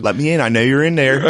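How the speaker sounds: imitated Philly accent, starting to laugh. Comedian quoting a Philly Shining parody, Philly accent. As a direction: do the menacing line in a Philly accent, amused. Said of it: "The fucking Philly accent".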